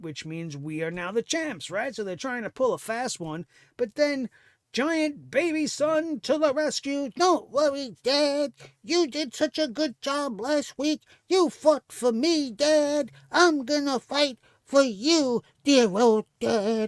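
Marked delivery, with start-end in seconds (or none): 7.2-16.9 loud, hammed-up, put-on cartoon kid voice. Voicing a wrestler's son as a cheesy cartoon character: put-on cartoon son voice. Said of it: "I go into Huggy Duggy and Duggy Daddy".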